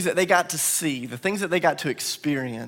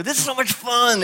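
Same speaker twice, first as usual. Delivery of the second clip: put-on higher, head-shaking little-boy sing-song on fun; son's cute delivery; 8 semitones higher than usual. Dad shows how his little son says it, higher and cute. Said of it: "he does it like that".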